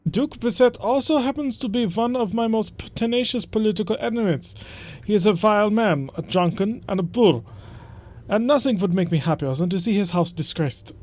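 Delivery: a hammed-up German accent, stiff and formal; bad German accent. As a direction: read the noble's summons in a bad German accent. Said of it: "just explaining the bad German accent".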